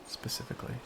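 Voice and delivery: breathy whisper, no voice. Shown as a demonstration. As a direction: whisper the word Specifically.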